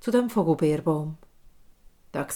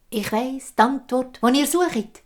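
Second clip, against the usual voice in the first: put-on old hag voice; 5 semitones higher than usual. Hideous old woman speaks.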